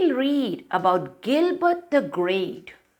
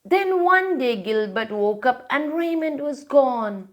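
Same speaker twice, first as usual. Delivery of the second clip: lively storybook read-aloud; reading to children; 3 semitones higher than usual. A narrator's reading. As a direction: read it like a bedtime picture book. Reads picture book aloud.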